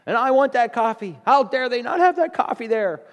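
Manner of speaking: mock angry shopper. Preacher imitating a shopper's meltdown over missing coffee, angry rant. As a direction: play the Walmart customer throwing a fit. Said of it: "They're cussing and screaming and carrying on".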